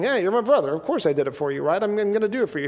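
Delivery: lightly put-on Italian accent. Brother explains why he did it, in a light Italian accent. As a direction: slip into a casual Italian-American accent. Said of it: "I got, like, an Italian accent".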